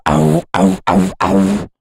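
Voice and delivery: punchy clipped "ow" mimicking tight plucks; clean pluck imitation. Shown as a demonstration. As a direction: imitate crisp plucks that keep their bite. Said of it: "in comparison to".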